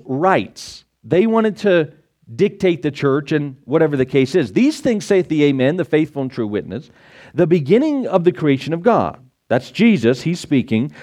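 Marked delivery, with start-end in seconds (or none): 4.5-9.2 measured, solemn Bible reading; scripture reading. Acted. Pastor reads Revelation to the congregation, solemn reading. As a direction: read it like the King James text.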